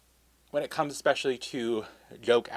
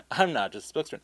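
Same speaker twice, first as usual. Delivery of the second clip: punchline delivery; 5 semitones higher, 3 dB quieter than usual. Retold or imitated. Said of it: "the joke was that".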